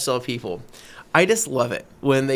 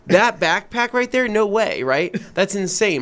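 incredulous; 5 semitones higher than usual. Retold or imitated. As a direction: scoff at the offer. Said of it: "And I'm like".

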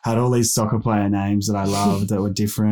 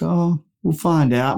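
eager yes; 7 semitones higher, slower than usual. Retold or imitated. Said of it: "we were like".

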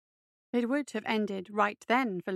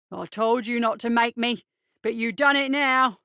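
loud bullying threat; a touch of gloating, building louder; theatrical menace; 6 dB louder than usual. Acted. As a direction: make a show of blaming the victim.

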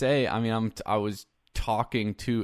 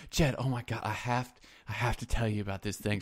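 softer voice, imitating an earnest friend; soft-spoken imitation; 5 dB quieter, faster than usual. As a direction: lightly mimic his hushed confiding tone. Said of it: "like, soft spoken".

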